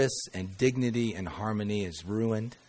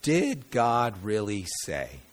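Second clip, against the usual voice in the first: sly serpent; slower than usual. Retold or imitated. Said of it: "the serpent's tactic is to make you question".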